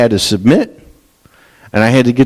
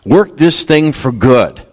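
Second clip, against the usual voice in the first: climbing higher and higher into a desperate plea; pleading prayer; 6 semitones higher, slower than usual. Retold or imitated. Preacher voicing a believer's prayer, rising desperate plea. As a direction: cry out to the Lord, pitch rising to a peak. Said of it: "and you can say".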